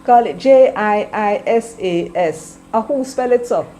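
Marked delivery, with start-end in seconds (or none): 0.4-2.6 spelling it out slowly. Shown as a demonstration. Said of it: "change the spelling of Jesus".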